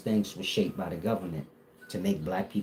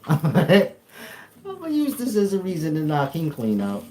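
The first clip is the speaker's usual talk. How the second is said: higher, slow laughing threat; 7 semitones higher, 5 dB louder than usual. Pretend. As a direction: chuckle through a joking threat. Laughing threat, then says joking.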